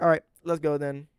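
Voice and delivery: rally them into action; retold eagerness. Voices Hank agreeing to charge in.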